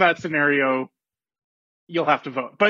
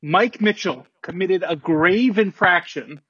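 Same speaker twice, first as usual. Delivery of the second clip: formal announcement. Acted. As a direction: read it like a commissioner at a podium. Commissioner's formal statement.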